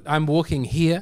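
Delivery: lightly imitated Northeast US accent; a hint of mock New Yorker; Northeast American accent. Listing American accents to co-host, light Northeast imitation. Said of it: "you got the Northeast".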